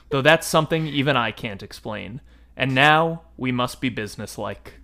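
measured storybook narration with quoted dialogue; calm read-aloud of a novel passage; story reading. A narrator's reading. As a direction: read the passage to the listeners like a book. Reads book passage aloud.

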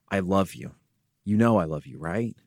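soft, quiet and tender, close to her face; tender reassurance. Retold or imitated. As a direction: reassure a crying little girl, hushed. Father reassures daughter, face in hands.

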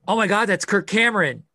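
excited retold cry; retold star-spotting outburst. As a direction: re-enact spotting a celebrity, pitch jumping up. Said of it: "And I went".

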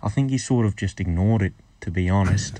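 Scot putting on an Australian accent; attempted Australian accent. Shown as a demonstration. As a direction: try an Aussie accent over a Scottish one. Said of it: "him doing an American, Australian accent".

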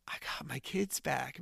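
slow, whispered, moved; emotional whisper. Real, not acted. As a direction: breathe it out, near tears. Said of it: "I'm getting emotional".

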